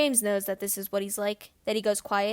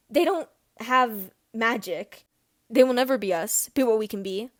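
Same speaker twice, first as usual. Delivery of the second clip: cold conviction; 5 dB louder than usual. Acted. Regulus voicing pure-blood belief.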